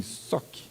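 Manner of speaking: breathy, very soft "soque" like a comic punch; just breathe the sound of a punch; whispered punch sound. Shown as a demonstration. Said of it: "Parecia assim".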